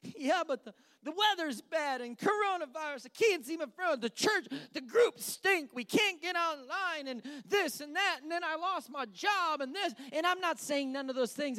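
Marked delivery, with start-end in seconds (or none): 0.0-9.9 higher, whining list of gripes; mock whiny complainer. Preacher mimics congregant listing complaints, higher and whiny. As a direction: whine through the excuses.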